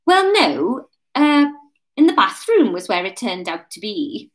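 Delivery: Welsh drifting towards Birmingham; botched Welsh, part Birmingham; slipping Welsh accent. Acted. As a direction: let the Welsh accent wander off into Brummie. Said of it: "Is that Birmingham?".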